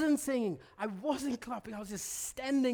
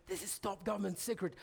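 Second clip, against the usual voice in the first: hushed secret; 2 semitones lower, 7 dB quieter, faster than usual. Retold or imitated. Dad sharing secrets with kids.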